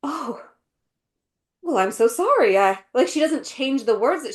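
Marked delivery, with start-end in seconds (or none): 0.0-2.6 imitating a sudden oh-so-sorry turnabout; mock apology after a pause; changed, apologetic delivery. Imitating the Queen changing her mind, mock apologetic. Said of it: "she changes her delivery".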